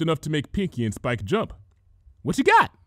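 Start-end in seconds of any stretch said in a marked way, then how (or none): 2.2-2.7 high bubbly eager question; Pinkie's curious question. A narrator's reading. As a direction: ask it bouncing with curiosity. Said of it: "Pinkie asked".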